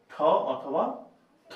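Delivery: ঠ and থ as two aspirated t sounds, set apart; TH sound demo. Shown as a demonstration. Teacher showing the choices for TH, aspirated ঠ or থ. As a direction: model ঠ, pause, then থ. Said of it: "তবে টি এর উচ্চারণ হবে".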